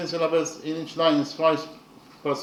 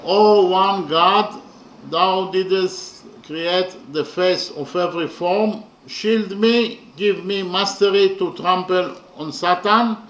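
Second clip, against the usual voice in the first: poem recital; 3 dB louder than usual. Shown as a demonstration. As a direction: declaim the prayer like a poem. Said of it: "The translation to English is as follows".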